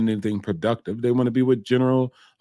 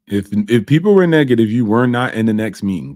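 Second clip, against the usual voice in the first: if people were negative, said much louder and punched; emphatic louder repeat; 7 dB louder than usual. Real, not acted. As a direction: hammer it home like a verdict.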